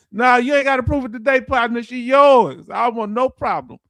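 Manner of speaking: fast, eager backing down; placating. Retold or imitated. Telling a six-foot boyfriend he needs no proof, hurried. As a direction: hurry to calm him down.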